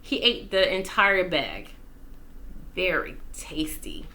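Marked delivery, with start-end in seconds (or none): 2.8-4.1 unvoiced whisper, savoring; whisper to himself. A narrator's reading. Walter the dog praising his snack in a whisper. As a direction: whisper it like a secret treat. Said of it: "said Walter to himself".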